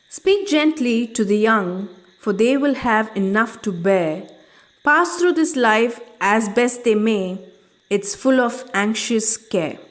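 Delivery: poem recitation. Acted. Teacher recites stanza four.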